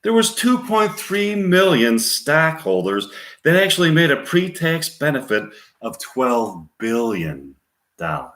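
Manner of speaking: high, emphatic movie speech, slowing in places; Michael Douglas. Acted. Player acting a Wall Street speech, emphatic. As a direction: deliver a big speech, falling off at the end. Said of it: "Scene two, Michael Douglas continuing".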